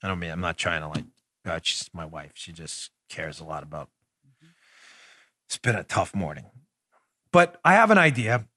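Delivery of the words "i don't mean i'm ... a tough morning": low, barely audible, broken off mid-thought; hushed apology. Real, not acted. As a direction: explain gently and haltingly, very softly. Apologising for his crying wife.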